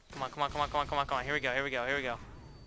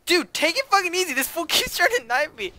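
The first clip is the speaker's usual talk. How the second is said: loud, high laughing protest; laughing panic; 14 semitones higher, 9 dB louder than usual. Real, not acted. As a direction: laugh while dodging a knife. Being knifed, laughing.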